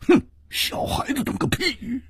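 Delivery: scornful huff. Acted. Hu Tiehua scoffing at the page boy. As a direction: huff at the brat's cheek. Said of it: "忍不住哼了一声".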